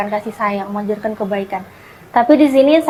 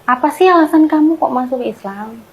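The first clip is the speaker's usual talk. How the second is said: mildly challenging question, pitched higher; unaccepting sibling; 4 semitones higher than usual. Retold or imitated. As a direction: lightly imitate a sibling who can't accept it. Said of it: "kakakku masih nggak terima".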